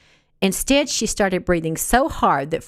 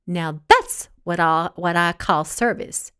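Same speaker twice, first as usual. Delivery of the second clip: slow, haughty sniff of approval; superior, condescending praise; mild snobbish tone; sniffy. Acted. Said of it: "she sniffed".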